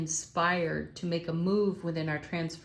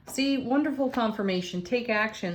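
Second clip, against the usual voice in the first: higher and louder, thrilled; excited; 5 semitones higher, 4 dB louder than usual. Real, not acted. Reader thrilled by a confirming spread. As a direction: burst out with delight at the cards.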